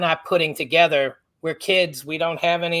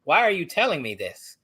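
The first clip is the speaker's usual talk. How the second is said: higher-pitched retold protest; indignant questioning; 4 semitones higher than usual. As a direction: push back at the officer, affronted. Indignant reply to police, retold.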